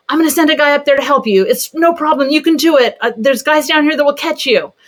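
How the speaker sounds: put-on a kid rescuing a scared toy; imitating her son. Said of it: "my kid says this".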